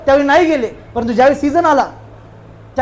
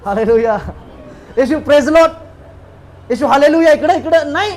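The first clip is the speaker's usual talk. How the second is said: mock shout for attention, a little raised; acted calling out. Preacher acts the blind man calling Jesus from the roadside, calling out. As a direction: call out as if hailing someone in the street. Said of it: "हा व्यक्ती आंधळा रस्त्यावरनं ओरडत होता".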